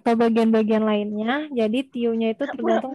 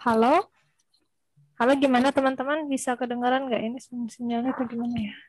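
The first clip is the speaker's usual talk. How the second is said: corrupted glitchy audio; faster than usual. Real, not acted. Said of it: "Suaranya putus-putus, Mbak".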